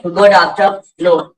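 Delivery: गुड आफ्टरनून slowly, word by word; measured demonstration; slow model phrase. Shown as a demonstration. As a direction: give learners the answer slowly. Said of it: "आप क्या बोलेंगे?".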